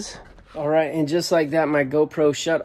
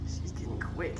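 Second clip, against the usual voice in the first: whispered aside; 13 dB quieter than usual. Real, not acted. Quiet aside while filming cat.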